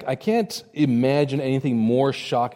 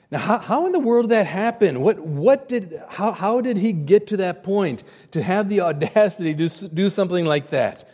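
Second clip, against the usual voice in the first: laughing disbelief; 5 semitones higher than usual. Real, not acted.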